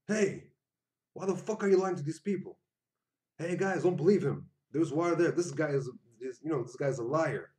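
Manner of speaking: high, loud furious shout to the crowd; angry call-out. Pretend. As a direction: yell out the liar in front of everyone. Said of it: "You could be like".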